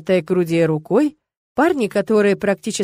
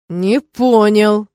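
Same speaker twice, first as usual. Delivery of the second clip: very slow, louder threat; threatening; 6 dB louder, much slower than usual. Acted. Rector advancing on the student, slow menacing reply. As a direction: lean in on each word with menace. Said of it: "с угрозой подтвердил он".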